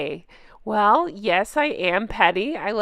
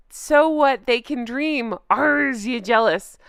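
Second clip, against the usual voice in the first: quoting the troll, leaning on "So" mockingly; stress on so what. Shown as a demonstration. A YouTuber reading the troll's comment aloud, mocking stress on "So". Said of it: "is that they put this".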